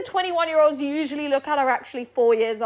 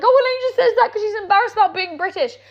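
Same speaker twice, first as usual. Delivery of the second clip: higher, quicker mock-quote of critics; mocking imitation of critics; 5 semitones higher, faster than usual. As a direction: rattle it off higher, mimicking the naysayers. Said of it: "everyone's like".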